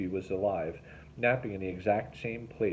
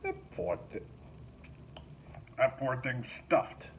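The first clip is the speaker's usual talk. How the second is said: laughing; 5 semitones higher, 4 dB quieter than usual. A narrator's reading. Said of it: "Mickey Cray busted out laughing".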